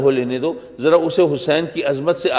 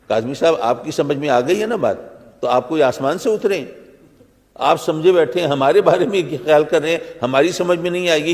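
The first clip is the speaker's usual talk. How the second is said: irritated retort; faster than usual. Retold or imitated. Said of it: "ہو سکتا ہے چڑ جائیں".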